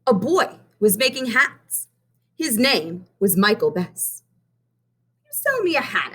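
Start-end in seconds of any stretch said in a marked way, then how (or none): 5.2-6.1 put-on high, eager little boy voice; young Benny asking. A narrator's reading. Benny asks Miss Hill for a rose, high and eager. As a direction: ask sweetly like a small boy. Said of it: "asked Benny".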